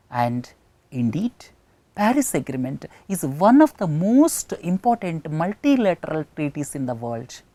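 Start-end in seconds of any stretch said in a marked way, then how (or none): 0.9-6.2 MOST leaned on for weight; added emphasis. Shown as a demonstration. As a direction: build emphasis through "most important". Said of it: "giving more emphasis".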